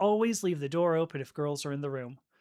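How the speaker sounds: ordinary talk, nothing marked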